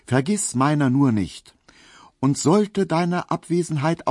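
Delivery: a lightly sentimental letter-reading lilt; reading a love letter. A narrator's reading. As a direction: read it like a maid's borrowed sentimental prose. Narrator reads Pauline's letter.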